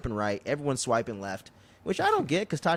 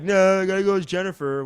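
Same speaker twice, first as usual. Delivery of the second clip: woman voice; 5 semitones higher, 6 dB louder than usual. Retold or imitated. Retelling a woman's quote.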